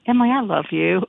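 light imitation of a Tidewater Virginia accent; imitated Southern accent from Tidewater Virginia. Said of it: "she said it in that accent, that Tidewater, Virginia accent".

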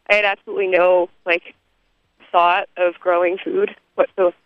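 winded, breathing hard while walking. Real, not acted. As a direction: talk between quick shallow breaths. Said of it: "Sorry, I'm out of breath".

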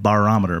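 Barometer opened with a clear "bar"; pun pronunciation. Shown as a demonstration. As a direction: say Barometer with a full BAR at the front. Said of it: "B A R".

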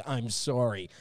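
softly spoken, sincere apology; contrite apology. Shown as a demonstration. Seller apologizing to a buyer by phone, contrite. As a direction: let regret sit gently in the voice. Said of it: "hear the contrition in your voice".

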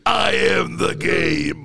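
very slow, booming pronouncement; grandiose declaration. Real, not acted. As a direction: boom it out, mock-epic. Repeats boast after laughter.

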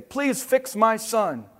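slow, high storybook plea; lightly acted insistent dad; demanding father. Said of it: "demanded Crispin's father".

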